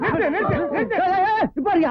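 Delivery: high sharp calls to break up a fight; shouting stop. Acted. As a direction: yell at them to stop fighting.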